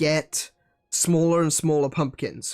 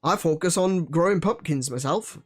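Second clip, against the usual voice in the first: West Country accent. Shown as a demonstration. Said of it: "I should be talking like, like I'm from the West Country".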